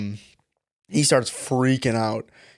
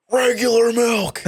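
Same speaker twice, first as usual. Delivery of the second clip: high, slow parody of the shopper; mock customer voice; 10 semitones higher, 3 dB louder, slower than usual. Clerk parrots the customer to his manager, high slow mockery. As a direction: echo him in a silly high drawn-out voice. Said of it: "and I'm like".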